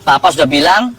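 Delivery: mock scolding father, lightly voiced; a hint of an I-told-you-so parent. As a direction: tut at the fallen child like an impatient dad. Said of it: "Kita orang tua kadang-kadang kebalikannya".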